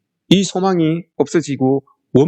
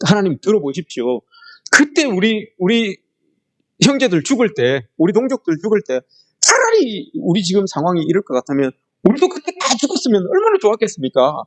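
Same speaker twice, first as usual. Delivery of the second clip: spiteful complaint; 4 semitones higher than usual. Retold or imitated. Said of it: "요렇게 이야기를 합니다".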